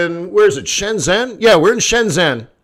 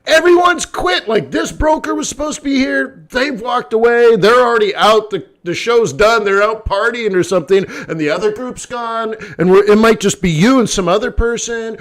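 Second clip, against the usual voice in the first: higher, frantic listing; panicked rush; 5 semitones higher than usual. Retold or imitated. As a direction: rattle it off like a stressed organizer. Panicked organizers quoted.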